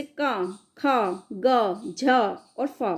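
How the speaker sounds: का, खा, ग, झ, फा sounded one by one with a strong puff of breath on खा, झ and फा; aspirated letter demo. Shown as a demonstration. Teacher showing pupils the aspirated consonants, letters breathed out hard. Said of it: "महाप्राण".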